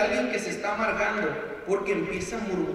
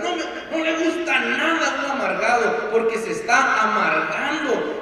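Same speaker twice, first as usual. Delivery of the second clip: petulant griping; 2 semitones higher than usual. Acted. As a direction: gripe about everything like a soured believer. Voicing a bitter member who likes nothing.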